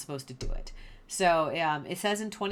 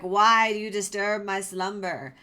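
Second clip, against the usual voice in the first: louder mock-spooky ghost voice; ghostly Samuel; 6 dB louder than usual. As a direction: ham up a ghost woken from sleep. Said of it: "he's like".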